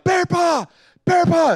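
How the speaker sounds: high-pitched mock alarm cry; mock screaming. Dad pranking the family on the trail, mock scream. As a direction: scream it in fake panic, without full volume. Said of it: "And then I just start screaming".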